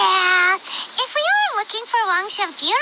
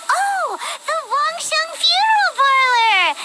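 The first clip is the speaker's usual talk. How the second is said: sudden realization; 6 semitones higher than usual. Acted. Paimon realizes.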